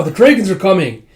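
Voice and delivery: high shouted alarm; shouting. Retold or imitated. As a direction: yell the warning. Battle alarm.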